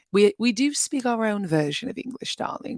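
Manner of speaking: weak stab at a posh British accent; British accent barely there; bad British accent. Shown as a demonstration.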